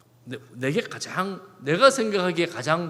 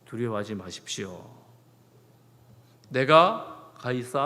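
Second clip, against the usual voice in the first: calm reassurance; 5 semitones lower than usual. Acted. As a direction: speak as Paul calming the crew. Paul reassures the frightened crew.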